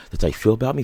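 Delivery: hammed-up aggressive accusation; mock angry challenge. Aggressor voiced in story.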